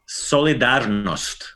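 solidarnost, rolled r, stress early; Croatian pronunciation. Shown as a demonstration. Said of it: "Kinda simple".

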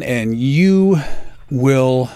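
hammed-up trailer voice cracking into a laugh; dramatic announcer voice. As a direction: drag it out like a movie trailer. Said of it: "Why am I talking like this?".

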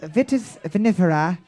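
lightly put-on English accent; Harry Potter. Shown as a demonstration. Host showing the contestant how, mock English accent. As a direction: model an English accent for the Latin. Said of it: "say it in an English accent".

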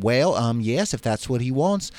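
hesitant Southern lady; lightly voiced Mississippi mother; Mississippi accent. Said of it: "how's my Mississippi accent".

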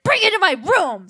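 high whiny demand. Retold or imitated. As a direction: order it like a spoiled kid. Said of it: "I was like".

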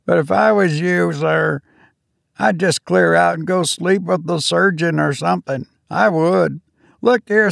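a nervous ship's steward pleading with a passenger; high faltering steward. Acted. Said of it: "faltered Robert".

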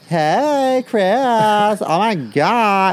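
high, loud, drawn-out camp gushing; mock gushing greeting. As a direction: imitate overfriendly, fawning squeals. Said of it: "their whole, like, demeanor and their vernacular will change".

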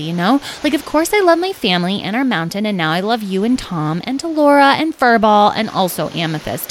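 gushing, rambling list of loved ones; lovestruck Carnelian. Acted. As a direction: start high and eager, then run on.

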